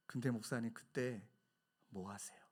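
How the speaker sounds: soft, low, tender question; humble loving tone. Retold or imitated. Elder pastor gently asking the young pastors, tender soft voice. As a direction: ask it gently, with love. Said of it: "사랑이 많은 말투로".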